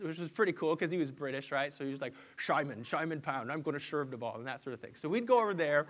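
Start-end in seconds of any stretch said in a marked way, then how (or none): 2.4-4.4 Sean Connery. Retold or imitated. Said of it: "he kind of talked like Sean Connery".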